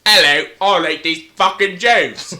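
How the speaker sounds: put-on character voice; silly action-hero impression; Mad Max. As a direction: echo the mock movie-hero greeting. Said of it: "hello, I'm Mad Max".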